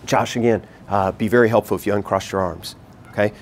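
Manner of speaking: calm teacher correction; calm and gentle. Shown as a demonstration. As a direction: ask kindly, no pressure. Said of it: "But saying".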